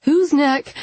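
high, loud shriek. A narrator's reading. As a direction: shriek it in alarm. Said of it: "I shriek".

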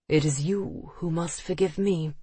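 lightly voiced deep, courteous gentleman; a touch of depth, politely measured; deep male voice. A narrator's reading. Visitor answering her apology, in a lightly deepened voice. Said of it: "he said in a deep voice".

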